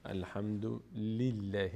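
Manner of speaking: slow الحمد لله with a thin L; thin, unrounded لله after الحمد; light lam. Shown as a demonstration. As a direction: clear light L and front æ in لله. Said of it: "خونده نمیشه".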